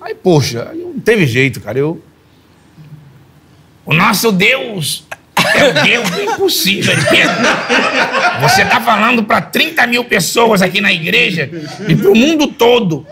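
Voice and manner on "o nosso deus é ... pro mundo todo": leve imitação de pastor, pausada e solene; voz do apóstolo Valdemiro. Retold or imitated. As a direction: pregador falando devagar ao microfone. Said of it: "escutando a voz do apóstolo". (apóstolo lembrando Pedro do culto ao vivo, leve tom de pregação)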